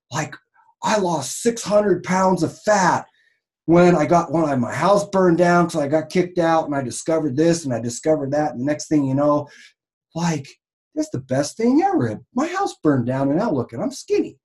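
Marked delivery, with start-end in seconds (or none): 0.8-8.5 mock ad testimonial. Parodying ad testimonial. 11.0-14.4 squeaky high, overexcited ad voice; mock gushing testimonial. Parodying ad testimonial.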